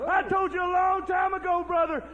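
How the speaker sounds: stumbling fired-up yell; too pumped to get the words out; so excited. Real, not acted. Champion rants at rival on air, excited yelling. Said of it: "I'm so excited".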